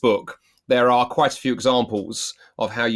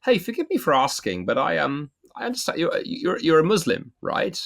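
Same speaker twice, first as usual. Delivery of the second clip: polite asking; 5 semitones higher than usual. Shown as a demonstration. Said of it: "to sort of say".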